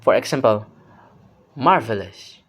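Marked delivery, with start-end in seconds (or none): 1.5-2.4 "marvelous" rising then dropping low; rise-fall tone. Shown as a demonstration. Teacher gives emphatic example, rise-fall on "marvelous". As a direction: send "marvelous" up and back down. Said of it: "The pitch goes up and then comes back down".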